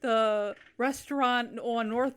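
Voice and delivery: slow voice-command delivery; lightly acted mom talking to Siri; imitated mom dictating. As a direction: spell it out slowly for the phone. Acting mom dictating to phone.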